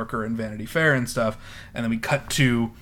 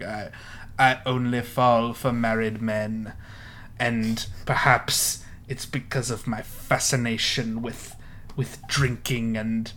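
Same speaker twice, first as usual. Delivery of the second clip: slow languid mid-Atlantic drawl; lightly voiced old Hollywood star; Dorothy Parker impression; slower than usual. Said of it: "I'm not doing a very good impression".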